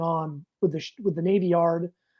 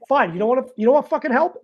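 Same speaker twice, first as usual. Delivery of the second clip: exasperated snap; 5 semitones higher, 3 dB louder, faster than usual. Retold or imitated. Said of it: "should have had better control of my emotions".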